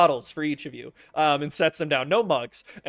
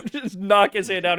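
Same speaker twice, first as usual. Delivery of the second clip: excited; 6 semitones higher, 9 dB louder than usual. Acted. GM narrates arm wrestle excitedly.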